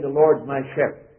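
tossed-off "The Lord's my shepherd" at normal level; flippant. Shown as a demonstration. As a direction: rattle it off carelessly. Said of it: "flippantly saying".

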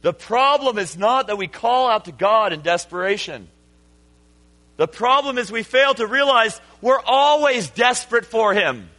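insistent restatement to the congregation. Real, not acted. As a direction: drive the point home the second time. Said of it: "I'll say it again".

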